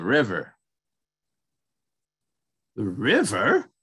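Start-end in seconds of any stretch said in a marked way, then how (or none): 2.8-3.7 rising, wondering little mouse; lightly voiced curious mouse; curious question. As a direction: ask it with puzzled curiosity. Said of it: "Mouse asked curiously".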